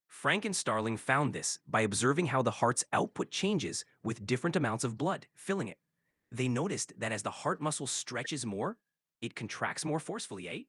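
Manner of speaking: light Canadian accent ending on "eh". Shown as a demonstration. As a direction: answer in a mild Canadian accent. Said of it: "answer to me in a Canadian accent".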